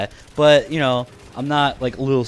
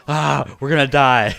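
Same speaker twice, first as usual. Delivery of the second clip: mock panic; 5 dB louder than usual. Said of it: "my eyes are wide open".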